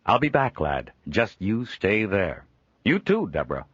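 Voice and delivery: a jovial trader chuckling at his own likeness; Joel, amused trader. Acted. Joel leaving.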